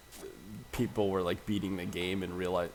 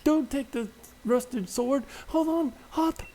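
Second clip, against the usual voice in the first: much higher, loud farewell and calls; high, loud game character; 11 dB louder than usual. Acted. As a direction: sing out the exit, then call after Hop. Voices characters leaving and Hop.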